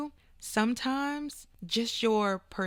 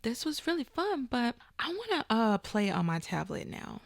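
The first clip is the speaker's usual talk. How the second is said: put-on young daughter; 2 semitones higher than usual. Mother imitates youngest daughter wanting to leave the call, politely. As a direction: gently imitate a child easing out of a chat.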